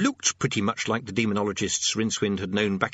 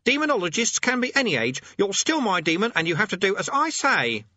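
put-on high-pitched boyish shout; 11 semitones higher, 4 dB louder than usual. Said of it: "he shouted".

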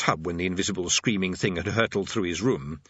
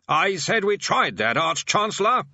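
loud repetition; 9 semitones higher, 4 dB louder than usual. Acted. Bursar repeats himself to the deaf old man, loudly. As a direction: say it up into an old man's ear. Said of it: "said the bursar loudly".

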